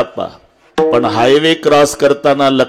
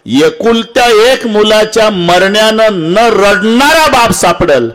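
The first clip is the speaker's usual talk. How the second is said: raised, emphatic preacher's voice; impassioned preaching; 7 semitones higher than usual. Real, not acted. Preacher telling the congregation how fathers weep for daughters, impassioned. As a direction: drive the key sentence home.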